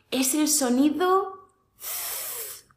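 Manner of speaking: Z held long, tongue between teeth; slow Z sound. Shown as a demonstration. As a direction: stretch the Z slowly. (Z sostenida despacio)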